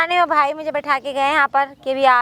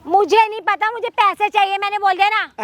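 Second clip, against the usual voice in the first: higher-pitched, impatient demand; exasperated, pitched-up retort; irritated insistence; 4 semitones higher than usual. Acted. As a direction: shut the argument down sharply. Acted quarrel over money.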